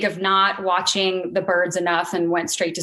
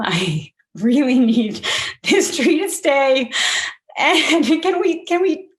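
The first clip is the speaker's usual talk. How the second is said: high, tearful plea breaking into laughs; 6 semitones higher than usual. Real, not acted. Begging the city worker to spare her tree, tearful plea. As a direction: choke the plea out through tears and little laughs. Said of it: "I'm crying like I'm crying right now".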